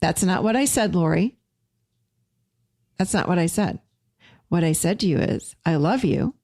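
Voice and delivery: calm, measured reply with presence; settled, steady, unhurried answer. Acted. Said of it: "I would say very calmly".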